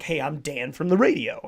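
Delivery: lightly voiced radio host; a hint of announcer swing, rising at the end. Imitating girlfriend asking for radio voice, light radio-host parody. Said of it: "do the radio one".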